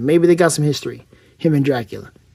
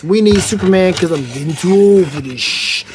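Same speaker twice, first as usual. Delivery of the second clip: lightly voiced weary superhero; Ben Affleck's Batman; 2 semitones higher than usual. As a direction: imitate a superhero who's over it. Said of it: "Ben Affleck, Batman from the Snyder".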